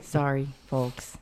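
slow, soft spooky delivery; drawn-out ghostly host sign-off; Ghostly Puppers voice. Real, not acted. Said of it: "you sound like Ghostly Pupper".

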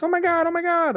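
put-on very high panicked girl; very high mock panic of a little girl. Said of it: "She's like".

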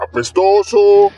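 drawn-out, high mock insult; mock disgust. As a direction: sneer it out slowly. Insulting the vanished bigfoot.

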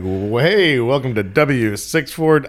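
slow, booming morning DJ; radio host voice. Pretend. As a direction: announce it like a radio DJ. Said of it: "It sounds like a, a radio host".

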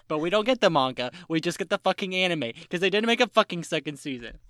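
loud, indignant fan rant; loud, sweary complaint; exasperated rant. Real, not acted. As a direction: vent it loudly, fed up. Ranting about no second season.

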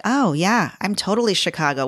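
usual speaking voice

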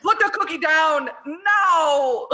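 slow, laughing through the line; laughing quote. Retold or imitated. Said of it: "my favorite line".

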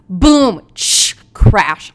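loud, punched impact noises; booming imitation of a collision; crash sound effects. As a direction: act out the crash, big and explosive. Acts out the car crash noises.

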